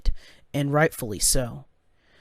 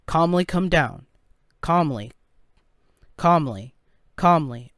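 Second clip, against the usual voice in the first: flat, stale robot voice, repeating. Acted. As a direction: drone it like a calm machine. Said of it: "stale robot-like voice".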